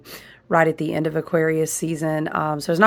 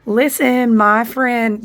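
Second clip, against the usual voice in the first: emphatic call; 5 semitones higher, 4 dB louder, slower than usual. Real, not acted. Calling attention to viewers.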